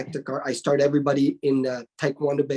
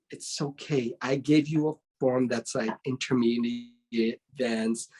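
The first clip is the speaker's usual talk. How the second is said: a hint of an impressed teacher; proud master; 5 semitones lower than usual. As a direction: tell him gently he surprised you. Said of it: "and then I said".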